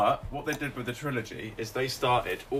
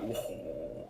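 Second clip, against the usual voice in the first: imitated whoa; 5 semitones lower, 6 dB quieter than usual. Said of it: "where he's like".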